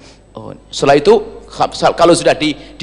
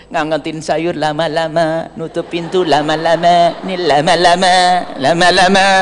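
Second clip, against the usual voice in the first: mock dawdling. Mocking wife who stalls.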